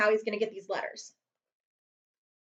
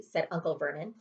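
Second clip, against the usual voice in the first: plain reading voice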